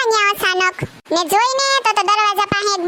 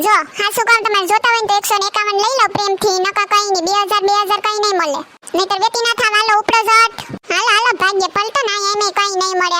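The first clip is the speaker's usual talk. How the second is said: annoyed scolding. Acted. Shooing the collectors away.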